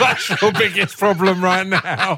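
slow, laughing delivery; chuckling through it. Real, not acted. Still laughing at Chris.

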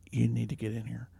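calm, hushed urgency; calm and quiet. Retold or imitated. Wife calling husband quietly to the kitchen, calm. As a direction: keep it calm so the baby stays easy. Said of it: "Real calmly".

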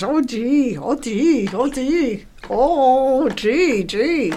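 lightly mimicking a foreign grandma; a hint of a fussy old lady; mock old lady. Teasing the friend's impression, light old-lady mimicry. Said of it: "Now you sound like some old lady".

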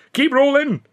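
very high, loud yell; shout. A narrator's reading. Billy yelling to the cameraman, loud. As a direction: yell over his shoulder. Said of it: "he shouted".

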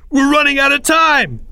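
high, loud urgent shout; desperate yell. A narrator's reading. Greg finally grasping the danger, yelling. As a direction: yell it in alarm. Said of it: "This last sentence was yelled".

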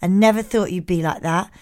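deadpan reading in a light put-on accent; Keith accent. Keith texting his verdict to Jemima, in a light Keith accent. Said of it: "Do it in a Keith accent".

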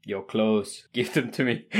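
lightly voiced Terminator impression; a hint of the Austrian action star, played for a laugh; Arnold Schwarzenegger. Quoting the film as the others discuss the famous voice, lightly imitated Terminator. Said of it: "you think about Arnold Schwarzenegger's voice".

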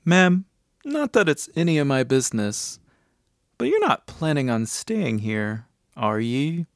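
hint of a cab driver asking discreetly. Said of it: "the cab driver stopped Georgie to ask".

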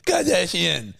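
high-pitched animal bleat with words; mimicked koala making conversation. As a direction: talk like the dying koala, squeaky-high. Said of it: "sounds like the koala's dying".

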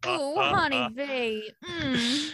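playful country honey-talk; country accent. Acted. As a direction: ham up a folksy country accent. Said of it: "natives here have a country accent".

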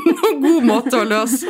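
slow words through a laugh. Real, not acted. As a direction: say it while laughing.

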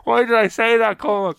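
high, pained exclamation; mock self-reproach. He replays his regret to Cormac in a high voice. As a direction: groan at your own blunder. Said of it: "I'm like".

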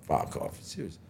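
hushed, half-whispered disbelief; stunned disbelief. Retold or imitated. To the dealer about the price, a hushed stunned whisper. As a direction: say it under your breath, floored.

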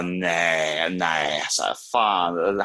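slow, drawn-out dismay; mock-gutted, lingering on the vowels; retold disappointment. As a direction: drag each word out, letting it sink in. Acts out disappointment at missing concert.

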